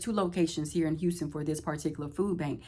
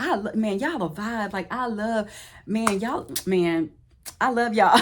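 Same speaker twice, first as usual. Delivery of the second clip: gushing praise; 4 semitones higher, 5 dB louder than usual. Retold or imitated. Food bank worker gushing at them.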